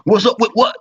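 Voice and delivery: high suspicious retort; mock suspicious. Repeating the touchy reply to a greeting, suspicious. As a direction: snap it back, hurt and wary. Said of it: "three times".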